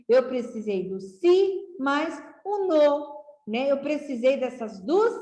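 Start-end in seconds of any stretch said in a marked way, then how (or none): 0.1-3.2 si and no set apart; teacher splitting sino into syllables. Shown as a demonstration. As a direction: sound out sino in two parts. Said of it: "para escrever essa palavra sino".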